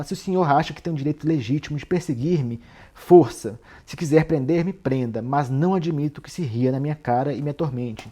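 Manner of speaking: mildly acted indignation, one word punched loud; angry. Suspect protesting to Porfírio at being mocked, mildly angry. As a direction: protest with a touch of anger, bursting out on "força". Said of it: "e ele fica com raiva".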